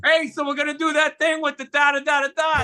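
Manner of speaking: high, chirpy retold chumminess; high sing-song run through the details; mock eager pitch. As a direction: act out keen, misplaced familiarity. Acts out eager, misplaced familiarity.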